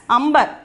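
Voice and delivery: "ambar" as one word with m before b; model pronunciation. Shown as a demonstration. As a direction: model "ambar", nasal closed to m. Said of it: "we are pronouncing this word as".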